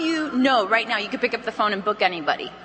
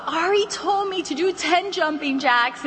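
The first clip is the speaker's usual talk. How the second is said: higher-pitched hammed-up patient; mock complaint; 6 semitones higher than usual. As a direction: playfully whine it, blaming the coach. Imagined injured consultant at hospital.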